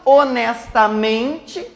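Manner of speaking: HONESTAMENTE slowly, leaning on MEN; stress on MEN. Shown as a demonstration. Teacher showing the last example, HONESTAMENTE slow with stressed MEN. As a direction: stretch HONESTAMENTE with the weight on MEN. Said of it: "o men".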